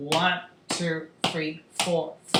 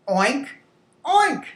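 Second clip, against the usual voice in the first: short oinks, second much higher; pig oink; 5 semitones higher than usual. Shown as a demonstration. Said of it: "talk about the sounds".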